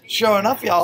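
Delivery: a put-on Southern accent. Comic answering casting people's request on his way out, bad Southern accent. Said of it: "Lenny, can you do a Southern accent?".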